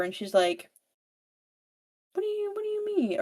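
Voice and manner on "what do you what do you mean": high and fast, taken aback; startled question. Retold or imitated. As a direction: blurt it out in shock. Evie hears of a friend.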